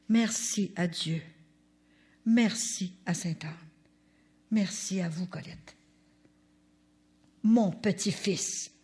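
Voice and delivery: slow grateful reading. Retold or imitated. Reading the grandson's letter aloud, slow and grateful. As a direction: read each merci slowly and gratefully.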